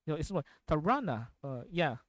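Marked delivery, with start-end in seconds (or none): 0.7-1.3 imitated odd accent, "Tarana" with English r and drawn middle vowel; weird accent. Streamer showing how the game character talks, weird non-native accent. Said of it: "this weird accent that she does".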